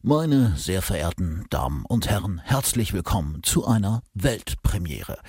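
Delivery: dramatic TV trailer announcer; RTL trailer voice. Acted. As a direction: boom it out like a movie trailer. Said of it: "mit dieser R-T-L-Trailer-Stimme vorstellen".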